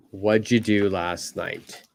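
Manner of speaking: "What'd you do last night" as wuchu, quick; natural blended question. Shown as a demonstration. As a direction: run "What'd you" together. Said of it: "the typical way to ask that".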